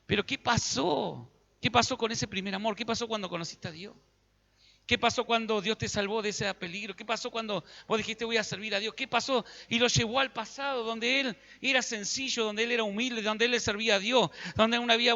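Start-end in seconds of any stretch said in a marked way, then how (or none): 0.1-9.5 grieving plea. Retold or imitated. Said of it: "Y le hablaba".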